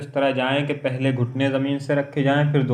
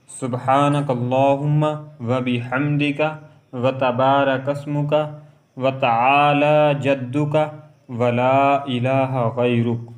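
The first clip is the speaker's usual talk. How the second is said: slow, measured Arabic recitation of the prayer; much slower than usual. Shown as a demonstration. Teacher reciting the opening prayer slowly for students. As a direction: recite each phrase slowly and evenly.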